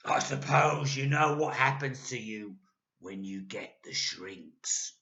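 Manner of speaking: sinister Mister Twit. A narrator's reading. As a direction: tease her with dread.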